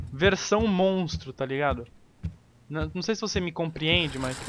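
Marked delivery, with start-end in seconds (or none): none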